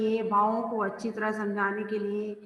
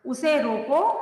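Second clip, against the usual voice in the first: "उसे रोको" raised, rising into a comma pause; higher "उसे रोको", left hanging at the comma; comma after रोको; 4 semitones higher, 4 dB louder, slower than usual. Shown as a demonstration. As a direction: lift the end of "रोको" and stop. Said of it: "comma लगा हुआ है".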